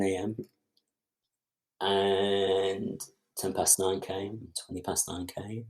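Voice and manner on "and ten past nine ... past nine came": very slow, each time dragged out; drawn-out waiting. Retold or imitated. Telling the interviewer how long he waited, very slow. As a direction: stretch the minutes out slowly, then let it sink.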